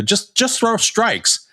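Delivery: high-pitched, drawn-out imitation of a yelling parent; mock yelling. Coach imitating parents to a volunteer pitcher, mock yelling. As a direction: call it out slowly like an exasperated sideline parent. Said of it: "I'd just start yelling".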